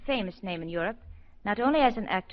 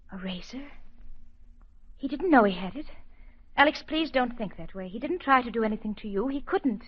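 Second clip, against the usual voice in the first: urgent, louder plea defending him; pleading doctor; 2 semitones higher, 3 dB louder than usual. Acted. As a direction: protect him, plead with your mentor. Constance pleads for the patient.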